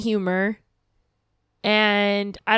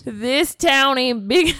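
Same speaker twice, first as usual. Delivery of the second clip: very slow, mock Wild West cowboy accent; 2 semitones higher, much slower than usual. Playing her D&D cowgirl, slow mock cowboy accent. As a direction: channel a showdown sheriff, half-joking. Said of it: "a cowboy accent".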